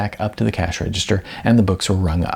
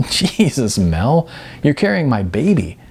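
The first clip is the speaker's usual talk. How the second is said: talking through laughter; 5 semitones higher than usual. Acted. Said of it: "Through his laughter".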